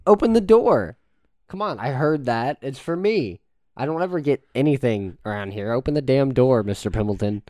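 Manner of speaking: high, loud angry demand; exasperated yelling. Acted. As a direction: order the butler, fed up and shouting. Acted quarrel with the butler.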